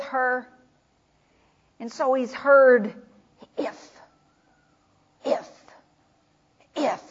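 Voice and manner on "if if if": soft echo. Acted. Echo of Mary's words.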